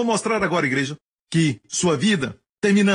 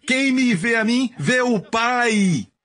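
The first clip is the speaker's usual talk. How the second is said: solemn quote; 8 semitones higher, much slower than usual. Acted. Quoting Jesus solemnly.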